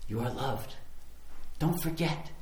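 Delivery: soft voice of reassurance; hushed, loving nudge; gentle reminder. Acted. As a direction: remind them softly and tenderly. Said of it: "God's Spirit gently opens the heaven".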